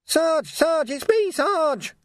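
high-pitched, insistent call; urgent calling. Acted. Nobby waving to his sergeant, urgent calling.

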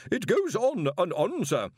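put-on high, anxious young wizard pleading; nervous protest. A narrator's reading. Young wizard protests to the Arch-Chancellor, high and anxious. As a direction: protest timidly to the boss. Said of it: "Collarbone protested".

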